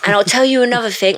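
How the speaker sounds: mock London accent. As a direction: put on a cocky Londoner's accent. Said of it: "it always starts off London".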